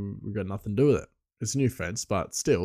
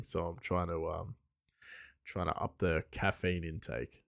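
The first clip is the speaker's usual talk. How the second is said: quiet words between coffee sips; while sipping a drink; 4 semitones lower, 9 dB quieter than usual. Real, not acted. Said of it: "So I'm just sipping my coffee".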